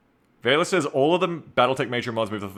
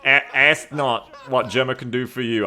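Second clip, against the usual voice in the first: JFK impression; 4 dB louder than usual. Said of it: "my J F K impression".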